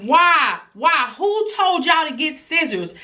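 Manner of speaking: put-on scolding the kids in a high, exasperated voice; retold yelling. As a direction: imitate yourself yelling at your child. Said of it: "I'm yelling at my baby girl".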